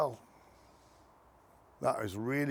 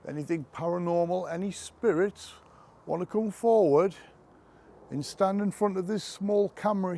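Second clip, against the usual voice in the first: talking to a ghost; 3 semitones higher than usual. Real, not acted. Inviting spirits at a graveside.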